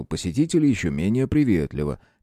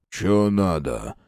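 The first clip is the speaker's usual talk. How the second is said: gloomier; much slower than usual. A narrator's reading. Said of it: "повторил он ещё мрачнее".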